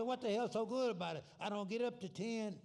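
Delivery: put-on high, loud old man greeting a friend. Old friend hailing Sam in Jackson, high old man voice. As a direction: pitch it up like a chirpy old timer calling out. Old men in a joke punchline.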